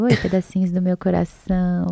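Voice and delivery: lightly sweet, cutesy hello; cute greeting. Acted. YouTuber greeting her followers, cute and affectionate. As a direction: greet them with a touch of cuteness. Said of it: "Porque é bem, tipo, fofinho".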